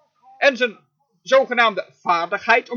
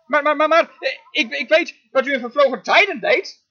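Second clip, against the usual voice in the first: mock panicked prayer; 4 semitones higher than usual. Preacher mocking a scared David crying to God, whiny. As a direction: play the frightened pray-er he never was. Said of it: "riep hij nooit uit".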